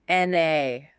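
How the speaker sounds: "N A" said as the loud middle syllable; stressed syllable. Shown as a demonstration. Student repeating the stressed middle syllable, stressed. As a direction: make "N A" the stressed part. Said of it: "That's the loud part".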